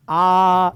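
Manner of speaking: आ said with the mouth wide open. Shown as a demonstration. Teacher models a wide open आ for students. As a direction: sing out a wide आ. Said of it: "आप मेरे साथ बोलो आ".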